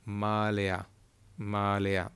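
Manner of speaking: Malea with the stress and stretch on MA; Malea, stretched on the first vowel; stress on first syllable. Shown as a demonstration. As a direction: lean on the MA of Malea. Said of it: "that's where you're gonna stretch out".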